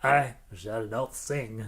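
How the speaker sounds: slow, lightly hammed-up stage declaration; Shakespearean tone. Host imitating viewer's refusal, mock-Shakespearean tone. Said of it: "in a Shakespearean tone".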